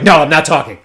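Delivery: put-out dealer, lightly imitated; imitated sulking. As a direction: mimic a sulking dealer's curt refusal. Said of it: "was just sulking".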